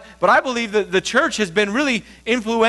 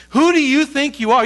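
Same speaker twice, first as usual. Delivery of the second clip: accusing inner voice; 7 semitones higher, 4 dB louder than usual. Acted.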